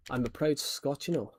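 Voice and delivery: proud Scot, lightly put-on Scottish accent. Shown as a demonstration. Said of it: "I can do a Scottish accent".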